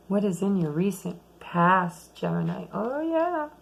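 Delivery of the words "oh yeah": high, delighted exclamation; light up at the card; excited. Real, not acted. Reacts to drawn card.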